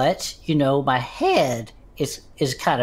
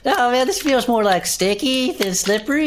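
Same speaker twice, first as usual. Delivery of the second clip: higher, strained griping; pained complaint; 10 semitones higher than usual. Acted. Bud protesting to Herb about sticky juice, strained whine. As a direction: whine through the discomfort.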